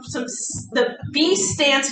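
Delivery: real stumble over the words; halting false start; stuttering. Real, not acted. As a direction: trip on the start and restart. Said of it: "excuse me, I'm stuttering here".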